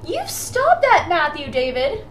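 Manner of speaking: put-on yelling child's full name; stern high scold, slowed on "stop"; scolding mom voice. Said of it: "She used my middle name".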